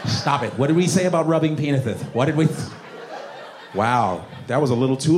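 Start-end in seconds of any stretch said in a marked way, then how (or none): 0.1-2.6 mock scolding with a lisp; lisping feeble parent. Parent reminding child of the rule, lisping half-hearted scolding. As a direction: scold with th for s, ineffectually.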